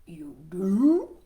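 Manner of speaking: a frog caught off guard; surprised Froggy. Acted. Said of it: "Froggy asked".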